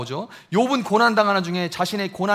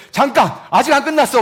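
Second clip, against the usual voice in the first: loud interruption; 6 semitones higher, 7 dB louder than usual. Retold or imitated. God cutting Job off.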